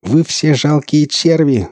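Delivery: high, drawn-out fanatical cry; crazed shout. A narrator's reading. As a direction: shout contempt like a madman. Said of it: "закричал он".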